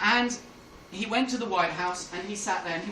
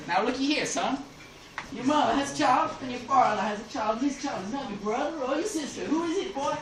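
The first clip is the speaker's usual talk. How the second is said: badly faked folksy American general; bad American accent; 4 semitones higher than usual. Powell puts the riddle to the senator, bad American accent. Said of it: "I can't do an American accent".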